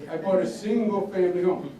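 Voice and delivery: lightly imitated pride, weight on "single"; mildly grand retelling of a proud boast; grandfather's grand boast. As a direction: say it as if it were the Taj Mahal. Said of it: "he used to say it like it was the Taj Mahal".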